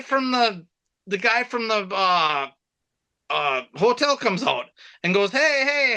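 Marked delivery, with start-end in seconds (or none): 5.3-6.0 pitched-up imitation of an irate complainer; mock indignant hail; retold confrontation. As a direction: act out someone calling them out, higher. Acting the hotel man confronting them.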